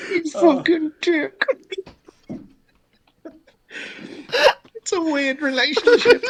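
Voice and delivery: high, giggling through the words; laughing. Real, not acted. Player laughing about Rollo and his dad. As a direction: laugh as you say it. Laughing after mock insult.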